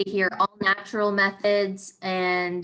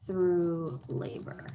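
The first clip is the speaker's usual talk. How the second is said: slow, drawn-out dictation; measured words at handwriting speed; writing aloud; 3 semitones lower, 5 dB quieter, much slower than usual. Real, not acted. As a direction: say it slowly as you write it down. Dictating while writing the plan.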